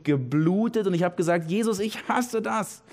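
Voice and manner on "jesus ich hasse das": pleading cry to Jesus, pitch climbing higher line by line; desperate prayer. Retold or imitated. Preacher retelling his desperate prayer to Jesus, anguished rising plea. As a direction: pour out a helpless, anguished plea that keeps rising. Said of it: "Ich hab innerlich geschrien".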